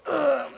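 sharp high grunt of a real punch; real pained grunt. Retold or imitated. Kid actor punched in the stomach for the take, high pained grunt. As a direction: grunt like the wind was knocked out. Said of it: "his fist goes".

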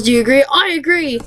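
retold question and high answer. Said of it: "I asked Pokemon Rules".

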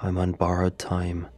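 flat text-to-speech monotone; robot voice. Acted. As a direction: read it like Microsoft Sam. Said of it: "The robotic voice spoke up once more".

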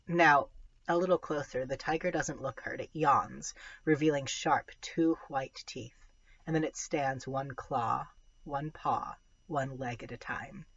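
storytelling read-aloud voice; story narration. A narrator's reading. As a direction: read it like a middle grade novel. Reads a novel aloud.

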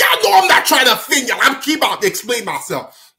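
high, fast protest ending in laughter; hurried disclaimer. Real, not acted. Storyteller assures listeners no offense, hurried disclaimer. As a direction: plead innocence in a rush.

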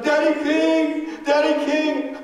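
loud, drawn-out call of Daddy King; slow, high yelling of Daddy King; crowd yelling. Retold or imitated. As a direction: cry out as the alarmed crowd. Crowd yelling his name.

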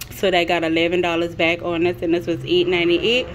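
slightly breathless from walking in; out of breath. Real, not acted. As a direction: talk while catching your breath. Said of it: "if I'm out of breath".

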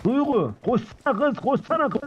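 excited, repeated run orders, pitch climbing; urgent excitement. Pretend. Streamer urging Duygu to run, excited. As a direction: hurry them along with mock panic. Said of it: "Heyecana sok".

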